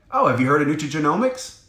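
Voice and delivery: quick, eager question with a lift on oh; excited. Shown as a demonstration. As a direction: sound thrilled to be asked. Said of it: "your level of excitement".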